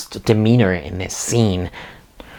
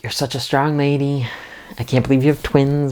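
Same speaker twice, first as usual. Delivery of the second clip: higher, sweet sitcom neighbor; lightly voiced gushing neighbor; chirpy neighbor voice; 5 semitones higher than usual. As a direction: gush like a cheery sitcom neighbor. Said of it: "Geraldine is like".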